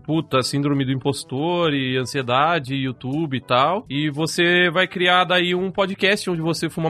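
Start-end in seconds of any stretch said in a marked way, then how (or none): 0.0-3.8 slow, lower mock depressed voice; mopey mock lament. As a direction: drag it out like a gloomy confession. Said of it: "vai tá falando assim".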